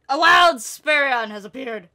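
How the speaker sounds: mock announcer. Player announces a character's arrival, mock announcer. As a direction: proclaim it like a game encounter.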